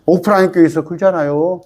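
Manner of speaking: usual speaking voice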